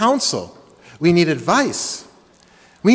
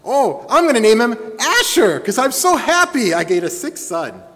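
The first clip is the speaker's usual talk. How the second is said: louder and higher, joyful announcement; mock loud joy; 5 semitones higher, 3 dB louder than usual. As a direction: shout the baby's name with delight. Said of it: "very loudly".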